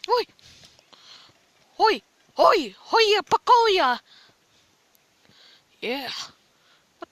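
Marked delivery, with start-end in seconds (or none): 0.1-4.0 higher, louder, slow drawn-out shout; playful call. Real, not acted. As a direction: sing it out like a silly greeting. Shouting playful greeting in game.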